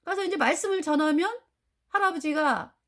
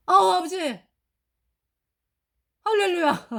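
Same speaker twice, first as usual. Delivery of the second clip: overjoyed; 4 semitones higher, 4 dB louder than usual. Real, not acted. Overjoyed at father's conversion.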